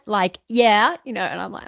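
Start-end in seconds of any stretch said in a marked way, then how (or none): 0.5-1.0 daughter's put-on American; imitated American accent. Daughter playing at accents with mom, imitated American accent. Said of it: "usually like an American".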